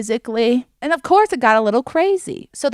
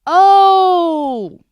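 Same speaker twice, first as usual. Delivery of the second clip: high, loud startled oh; excited gasp; 9 semitones higher, 9 dB louder than usual. Real, not acted. Surprised gasp at the clip.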